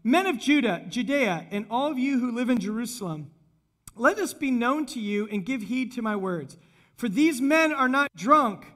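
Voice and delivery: mildly projected public proclamation. Acted. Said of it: "he raised his voice and declared".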